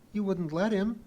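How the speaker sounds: high-pitched uneasy question. A narrator's reading. Pee-wee worried Kip would allow a spanking, uneasy. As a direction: ask uneasily, voice going up. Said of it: "She looked uneasy".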